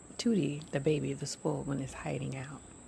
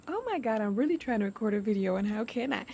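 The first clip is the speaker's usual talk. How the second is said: being tickled; 5 semitones higher, faster than usual. Real, not acted. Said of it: "tickling the stuffing out of me".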